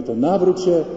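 imitated priest's sharp exhortation. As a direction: firmly urge a sinner, voice lifted. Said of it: "I ksiądz na mnie nie krzyczy".

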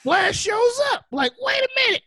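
high, loud shout of surprise; excited shout. Real, not acted. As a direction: yell it like a shocked fan. Excited retelling of the Flash reveal.

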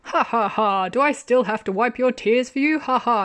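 lightly hammed-up teasing ha-has; mock laughing through the taunt; mock grinning laughter. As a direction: imitate a grinning tease, pitch lifted. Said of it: "with a big grin on his face".

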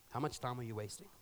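preacher echoing the challenge softly. Shown as a demonstration. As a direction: let the question sink in. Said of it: "repeats the question".

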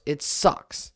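breathed out in a whisper; a whispered "It sucks" after a plain one. Real, not acted. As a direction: drop it to a resigned whisper. Repeated complaint, second whispered.

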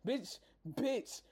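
laughing high through each repeat; laughing bitch. Real, not acted. Ranting about her, laughing in disbelief. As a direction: crack up as the word repeats.

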